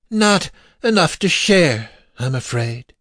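high, mocking mock-regret; villain's taunt. A narrator's reading. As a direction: taunt them with false apology, pitched high. Villain taunts rescuer with infant.

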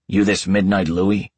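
a hint of a sharp, gruff dog. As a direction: demand it with a light gruff edge. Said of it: "demands in the same sharp yet gruff voice".

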